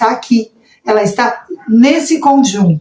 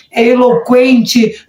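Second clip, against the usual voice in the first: drawn-out emphasis; much slower than usual. Shown as a demonstration. Illustrating an eloquent preacher's delivery.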